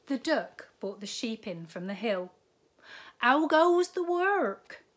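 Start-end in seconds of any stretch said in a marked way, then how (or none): 3.2-4.8 high, loud, slow bellow from bed; lazy farmer calling. A narrator's reading. Lazy farmer calling from bed to the duck, high loud bellow. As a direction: boom it out like a lazy boss. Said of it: "called the farmer".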